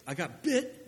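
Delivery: mock out-of-breath report from a small kid; imitating out of breath. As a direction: gasp it out like a winded child. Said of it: "he was out of breath".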